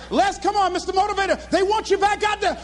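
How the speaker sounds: high, urgent stagehand call; urgent coaxing. Retold or imitated. Organisers call him back to cheering crowd, urgent. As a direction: imitate excited handlers summoning the star.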